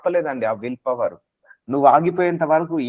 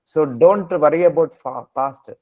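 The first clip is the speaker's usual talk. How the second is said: very slow urging; much slower than usual. Real, not acted. Preacher urging listeners not to worry.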